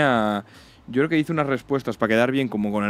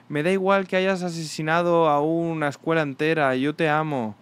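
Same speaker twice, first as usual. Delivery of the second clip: mock fan gush; 4 semitones higher than usual. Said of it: "full fans de peña de".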